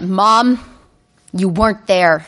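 flat, hollow war veteran stare; haunted deadpan. Retold or imitated. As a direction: say it like a shell-shocked vet. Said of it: "thousand-yard stare of a Vietnam vet".

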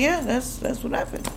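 mock offhand shrug of a reply; nonchalant. Mom brushing off daughter's question, offhand and casual. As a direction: toss it off like it's nothing. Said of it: "All nonchalant".

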